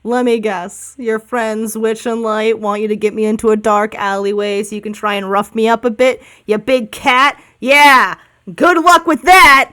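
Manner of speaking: a touch of sarcastic dude bird; lightly voiced suspicious bird, building to a loud jeer. Cornered bird to the party suspected of ambush, lightly voiced dude sarcasm. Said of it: "I have to do a dude voice".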